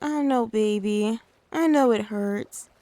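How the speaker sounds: low, gentle consoling; mother comforting her crying toddler. Acted. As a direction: soothe a child who fell. Comforting the hurt child.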